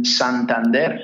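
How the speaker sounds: Santander with a Spanish accent; Spanish-style Santander, ending in a stressed "dair"; Spanish pronunciation. Shown as a demonstration. Spanish versus gringo pronunciation shown.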